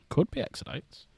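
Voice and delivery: a conspiratorial hushed repeat; whispered aside. Pretend. Streamer whispering a guess about the diorama.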